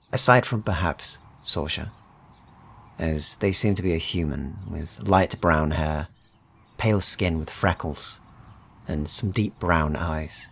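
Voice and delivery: measured, unhurried scene-setting narration over music; story narration. A narrator's reading. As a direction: draw the listeners into the world, calm and even. Game master describes the stranger.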